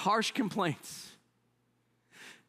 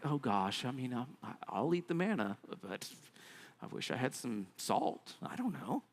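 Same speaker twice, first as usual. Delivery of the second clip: softer, halfhearted complaining to oneself; a mild mock grumble under the breath; muttered grumble; 6 semitones lower, 7 dB quieter than usual. Mimicking quiet mild grumbling.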